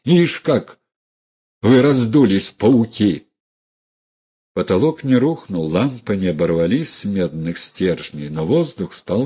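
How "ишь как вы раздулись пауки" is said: high, contemptuous jeer; mocking the puffed-up relatives; sneering scorn. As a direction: spit it at them. Dunya mocks the relatives.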